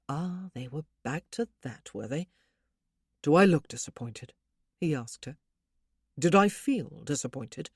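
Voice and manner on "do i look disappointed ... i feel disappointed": louder, insistent rhetorical questions; emphatic, louder. Acted. Husband insists to his wife she did not disappoint, louder. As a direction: press the point warmly but firmly.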